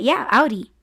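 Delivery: "Audi" said OW-dee; name mispronounced. Retold or imitated. Coworkers agreeing but still wrong, "Audi" as OW-dee. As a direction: breezily get "Audi" wrong with an OW. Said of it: "they're like".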